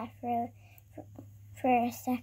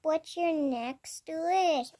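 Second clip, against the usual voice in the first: slow, grand wish-granting bird; magic bird voice; much slower than usual. Pretend. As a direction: drawl it out like a genie bird.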